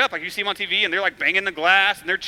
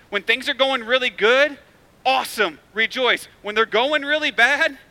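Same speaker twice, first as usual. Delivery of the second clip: louder and higher, driving the contrast; emphatic preaching; 5 semitones higher, 4 dB louder than usual. Real, not acted. Pastor contrasting good times and bad for the church, excited. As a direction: preach it with rising energy.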